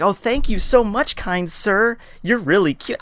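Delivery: high-pitched mock girl's gratitude; sarcastic swooning falsetto; grandiose gushing thanks. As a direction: gush like a damsel to her rescuer. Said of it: "of a, of a grandiose".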